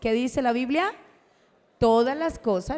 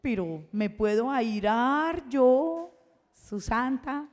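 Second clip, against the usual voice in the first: mock pious churchgoer; slower than usual. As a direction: mimic a fussy saint who can't get angry. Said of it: "Y alguien dice".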